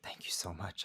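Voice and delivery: soft retold whisper, barely voiced; whispered thanks. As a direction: breathe the thanks out quietly. Crying stranger thanks the speaker.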